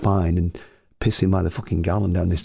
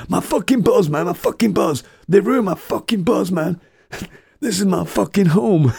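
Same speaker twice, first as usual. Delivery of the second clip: furious shout; 11 semitones higher, 3 dB louder than usual. Retold or imitated. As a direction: bellow that they ruined his home. Owner raging about his bus.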